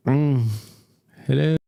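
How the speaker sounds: hello through an odd electronic filter; voice changer effect. Shown as a demonstration. Streamer testing a voice changer on stream, processed voice. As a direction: test the altered voice with short hellos.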